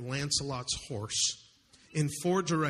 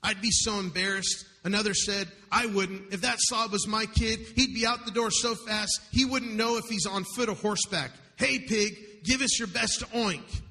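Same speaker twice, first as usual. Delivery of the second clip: louder, higher mocking jeers; mild mock heckling, higher and louder; jeering factory men; 4 semitones higher than usual. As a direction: taunt him like crude workmen across the street. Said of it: "loud and degrading remarks".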